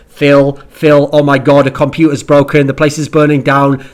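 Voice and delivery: mock frantic producer in the ear; panicking producer. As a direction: blurt out disasters like a frantic producer. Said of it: "we are now being told in Scott's ear".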